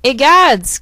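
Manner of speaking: a shocked mother bear's outcry; cry of shock. Acted. Mama Bear seeing her bed slept in, loud shocked cry. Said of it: "cried Mama Bear".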